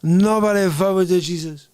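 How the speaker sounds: lightly voiced threat, leaning on "Nobody"; Jesus from Lebowski. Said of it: "That's freaking everybody from the movie".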